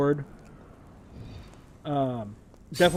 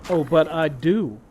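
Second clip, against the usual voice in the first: evil voice; 4 dB louder, slower than usual. Pretend. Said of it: "evil voice".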